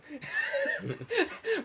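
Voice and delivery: high, soft mouse-like giggle; tiny mock squeaks of laughter; squeaky stifled laugh. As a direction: imitate a laugh squeaking out while concealed. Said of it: "sounds like a mouse that's just squeaking".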